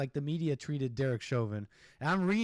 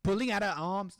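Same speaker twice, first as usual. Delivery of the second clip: put-on higher-pitched stab at British accent; failed British accent; 5 semitones higher, 4 dB louder than usual. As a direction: badly imitate a British woman's accent. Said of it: "in the lady's accent".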